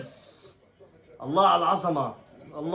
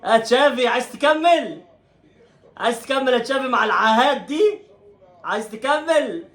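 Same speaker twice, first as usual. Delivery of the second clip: higher, laughing taunt at the coach; laughing mockery; 8 semitones higher than usual. Real, not acted. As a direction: laugh through it while taunting. Mocking the coach Xavi. (يسخر من المدرب تشافي وهو يضحك)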